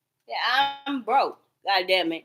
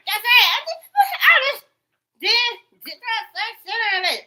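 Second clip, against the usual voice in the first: laughing; 12 semitones higher, 8 dB louder than usual. Real, not acted. Laughing while talking.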